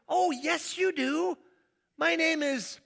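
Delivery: high, eager "Oh, yes, you do"; eager reply. Acted. Visitor insisting to the homeowner, high and eager. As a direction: protest brightly that they know you.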